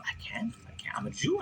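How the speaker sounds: high, hushed protest; meek refusal. Retold or imitated. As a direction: plead softly in a small high voice. Captive refuses after being yelled at.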